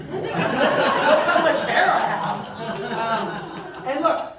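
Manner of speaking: slow, delighted giggly commentary; real laughter breaking through the words; laughing. Real, not acted. Laughing at old photo.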